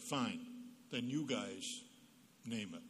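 put-on a touch of the pouting youngest child; mild baby-of-family sulk. Youngest child huffs at publishers, mild sulk. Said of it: "in true baby of the family style".

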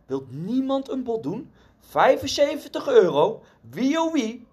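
high-pitched auctioneer's appeal; auctioneer calling. A narrator's reading. Auctioneer appealing to a reluctant room, high calling voice. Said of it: "de veilingmeester vroeg ... riep de veilingmeester".

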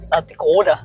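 put-on long round O in "Dakota", South Dakota accent. Imitating a friend living there, South Dakota accent. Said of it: "some of the words she says".

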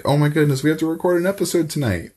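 mock panic. Mock panic over missing episode.

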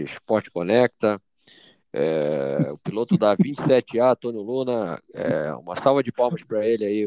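lightly voiced pilot announcement; a hint of captain on the intercom; airline pilot voice. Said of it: "só que com voz de piloto de avião".

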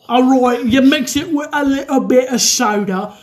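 exaggerated British gangster impression; Peaky Blinders British accent. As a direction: put on a thick mock British gangster accent. Drinker doing Peaky Blinders impression.

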